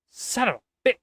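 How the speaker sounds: high-pitched, acted outburst; exasperated curse. Professor curses after being hung up on, exasperated outburst.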